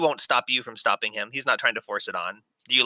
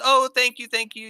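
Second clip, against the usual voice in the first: high sobbing little gnome; a tiny gnome sobbing out his thanks; 11 semitones higher than usual. Acted. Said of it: "he starts sobbing and says".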